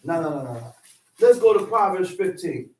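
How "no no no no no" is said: indignant king refusing. Acted. King refuses passage through land.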